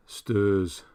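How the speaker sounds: put-on northern English accent, stairs as "sturs"; slow northern "sturs" vowel; wife's northern accent. Describing his wife's accent, northern English "sturs". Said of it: "that sort of accent".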